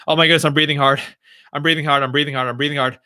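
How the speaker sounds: mildly panicky, hurried self-talk; mock panic. Streamer acting out noticing heavy breathing, mildly panicked. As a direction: act out fretting over your own breathing. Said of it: "you're panicking when you're thinking about breathing".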